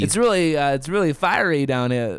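hesitant attempt at Aussie; amateur Australian impression; Australian accent. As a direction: feel your way into an Australian accent. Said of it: "tell the story in an Aussie accent".

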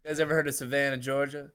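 lightly voiced Southern Capote, soft lisp; a mild soft-lisped Southern dandy; Capote impression with soft lisp. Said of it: "He's doing like a Philip Seymour Hoffman, uh, doing Capote".

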